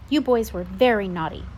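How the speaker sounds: put-on scolding babysitter. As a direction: tell the boys off firmly.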